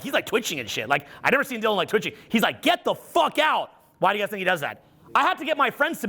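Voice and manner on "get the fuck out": slow, high-pitched mock yell; imitated angry outburst. Twitching son wants his dad gone, imitated angry outburst. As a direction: stretch it out as an exasperated teen.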